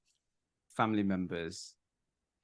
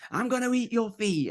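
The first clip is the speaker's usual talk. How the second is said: high, loud mock monster threat; playful granddad; 13 semitones higher, 5 dB louder than usual. Granddad winding up the calmed child, high loud teasing. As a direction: tease a toddler as if about to pounce. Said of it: "my dad would go".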